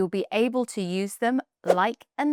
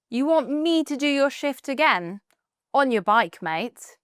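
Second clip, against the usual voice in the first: playful, sarcastic refusal, higher; sarcastic but not rude; 5 semitones higher than usual. Acted. Coworker asks for a shift swap, sarcastic refusal. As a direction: tease a coworker, no real bite. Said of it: "it's a bit more sarcastic, but not rude".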